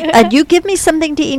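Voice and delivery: a hint of a pleased pet talking; voicing the cat. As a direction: speak as the contented cat. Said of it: "like, well".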